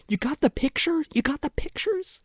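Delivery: high-pitched retold pestering; high mock-eager questioning. Kid-like pestering quote in retold scene.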